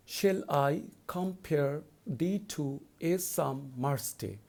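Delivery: slow, measured reading of the verse line; poem recitation. Shown as a demonstration. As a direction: read the line slowly and evenly. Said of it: "let's go to the first line".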